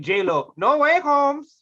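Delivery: jumps high and loud at the end; hyped title announcement. Acted. Pitching the joke sequel title, high emphatic finish. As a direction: punch the title upward, hammed-up. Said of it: "Yeah, I'd be like".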